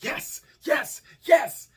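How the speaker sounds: high, rising yes yes yes; excited cheering. Retold or imitated. Husband cheering his wife on as the baby comes. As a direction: cheer her on.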